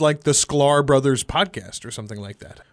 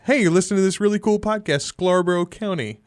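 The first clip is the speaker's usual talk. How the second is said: enthusiastic pitch; 3 semitones higher than usual. Retold or imitated. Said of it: "I discussed it with other people as".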